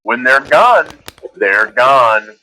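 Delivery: slow, low, solemn sponsor tagline; mock ad sign-off. Podcast host closes a joke candy spot, slow mock ad read. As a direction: let each phrase sink with deliberate finality.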